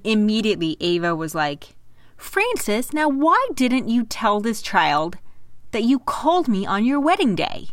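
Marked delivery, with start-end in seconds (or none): 2.2-7.7 lightly voiced catty ex-wife; sweetly needling ex-wife. Ava needling Frank.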